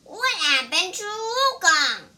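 high, loud startled question; alarmed cry. A narrator's reading. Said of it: "cried Ba Jie".

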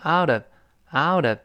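"out of" run together slowly, t softened to a d; linked and voiced. Shown as a demonstration. Teacher showing students how to link "out of", voiced. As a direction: link "out of" into one voiced "ou-dov". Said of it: "放在一块儿连读加浊化".

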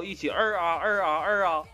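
carp noise. Acted. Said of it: "学鲤鱼叫".

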